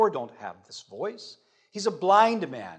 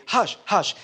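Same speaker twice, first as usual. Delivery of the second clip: raised, emphatic shushing; hushing; 5 semitones higher, 4 dB louder than usual. Acted. Crowd to the blind beggar, hushing. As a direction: silence him with a higher voice. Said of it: "they're hushing him".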